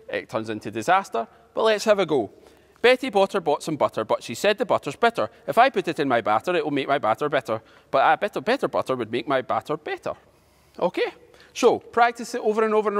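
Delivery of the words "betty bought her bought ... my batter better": faster, run-on recitation with hardly a pause; quick tongue twister. Shown as a demonstration. Teacher has a go at the twister, quickly. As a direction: rattle through the tongue twister. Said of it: "then try and say it quickly".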